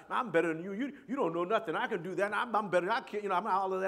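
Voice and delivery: put-on loud bragging little boy; boastful kid. A boy boasting to his cousins, loud and cocky. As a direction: brag loudly at your cousins. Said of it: "and I".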